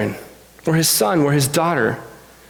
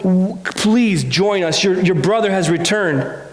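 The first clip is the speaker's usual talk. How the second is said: pleading father. Acted. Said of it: "The father came out and said".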